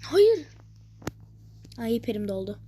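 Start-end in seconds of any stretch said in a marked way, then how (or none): 0.0-0.5 high, loud drawn-out "Hayır"; dismayed no. Real, not acted. Player watching his team fail, loud dismayed no. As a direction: cry out in dismay. Reacts to bad moment.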